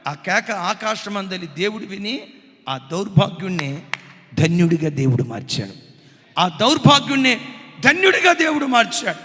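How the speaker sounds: loud, driving sermon delivery; fiery preaching. Acted. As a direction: pound the warning home from the pulpit. Preaches at full force. (ఉద్వేగంగా గట్టిగా ప్రసంగం)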